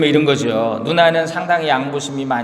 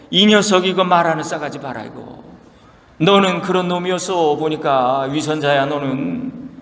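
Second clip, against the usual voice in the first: mock angry friends; 3 semitones higher than usual. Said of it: "친구들은 더 열받아가지고".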